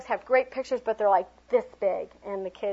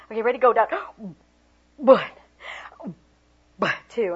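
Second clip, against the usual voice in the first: louder commanding cue; coaching count; 6 dB louder than usual. Shown as a demonstration. Teacher leading kids to hold breath, louder cue. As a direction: call the dunk like a coach. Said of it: "I make them hold their breath".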